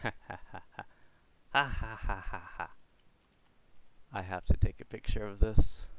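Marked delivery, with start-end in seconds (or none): 0.0-2.7 laughing. Real, not acted. Laughing at funny spawn.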